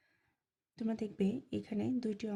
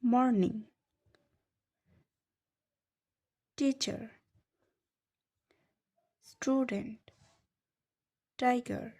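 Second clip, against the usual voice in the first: words read out loudly and clearly, the first one loudest; teacher calling out the syllable words; called out loud; 4 dB louder than usual. Shown as a demonstration. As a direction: call each word out for the class. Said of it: "সিলেবলে ভেঙেছি".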